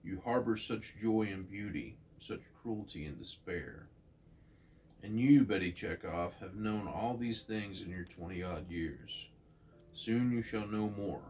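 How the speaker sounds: grave, measured cosmic proclamation; Watcher's speech. Acted. Narrator reading the Watcher's verdict to Betty, solemn. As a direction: pronounce doom on Earth like an ancient watcher. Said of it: "The Watcher says".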